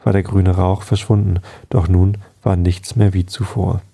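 calm, measured storytelling; bedtime story narration. A narrator's reading. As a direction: read a bedtime tale at an even, unhurried level. Reads a bedtime story aloud. (ruhige Gutenachtgeschichte, vorgelesen)

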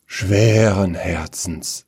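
very slow, heavy-hearted; heavy sigh. Acted. Prince gives in to keeping his promise, sighing. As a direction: let it out with a sigh. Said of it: "seufzte der Prinz".

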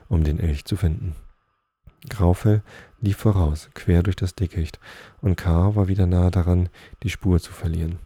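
measured read-aloud storytelling voice; story narration. A narrator's reading. Reading Nils Holgersson to listeners, story narration. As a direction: read the tale out clearly, phrase by phrase.

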